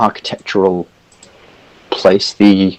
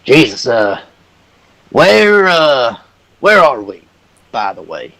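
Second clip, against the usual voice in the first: confused Hercule; 3 semitones higher than usual. Acted. Hercule asks where they are.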